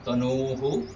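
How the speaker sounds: तनुहु as "tanoo-hu"; lengthened long vowel. Shown as a demonstration. Teacher explains longer vowels, तनुहु with a held "oo". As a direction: hold the middle ऊ of तनुहु before "hu". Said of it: "बल लगा के करते हैं".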